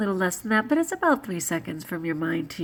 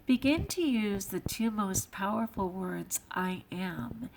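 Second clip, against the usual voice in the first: quoted reading; 7 dB quieter than usual. Real, not acted. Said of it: "it says".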